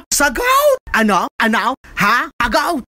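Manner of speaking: high sharp command to answer; barked demand. Acted. Stern father demanding the suitor answer, sharp and high. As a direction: snap at him to answer now.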